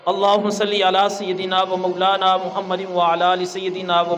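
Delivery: measured, steady recitation of a prayer; formal closing du'a. Real, not acted. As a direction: lead the congregation in solemn supplication. Closing blessings and supplication.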